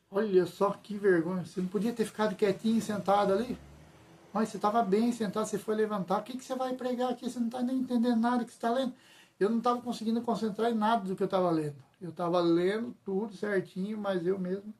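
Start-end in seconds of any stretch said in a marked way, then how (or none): 0.1-8.9 a lightly voiced sneering tempter, rising higher toward the end; taunting enemy voice. The enemy mocking the nervous reader, lightly voiced taunting. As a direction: taunt him like a mocking inner voice, speeding up at the last line. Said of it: "Eu vou falar do jeito que o inimigo tava falando".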